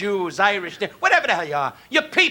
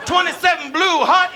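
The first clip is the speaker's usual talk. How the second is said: high-pitched snap count; quarterback signal call; 6 semitones higher than usual. Acted. Comic replaying the football players' huddle joke, quarterback signal call. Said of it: "That's them football players".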